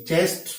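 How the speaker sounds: चेस्ट begun with a CH sound as in "chin". Shown as a demonstration. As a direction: say चेस्ट with CH, not K or SH. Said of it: "सीएच च कब होता है".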